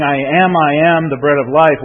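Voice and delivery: forceful, doubled "I am"; emphatic. Retold or imitated. Preacher quoting Jesus' claim to the congregation, emphatic. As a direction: declare it, leaning on each "I am". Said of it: "which is an emphatic".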